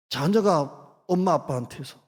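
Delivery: normal talking voice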